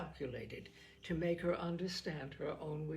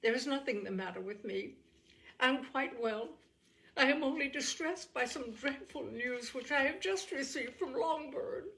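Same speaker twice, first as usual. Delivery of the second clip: forced composure; 6 semitones higher than usual. A narrator's reading. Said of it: "endeavoring to compose herself".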